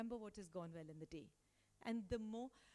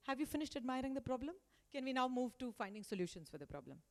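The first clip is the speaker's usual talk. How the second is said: retold impatience, quick and louder; impatient; 3 semitones higher, 5 dB louder than usual. Boss cutting off the team's complaints, mildly impatient. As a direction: push the team on, mildly exasperated and fast. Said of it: "I lose my patience".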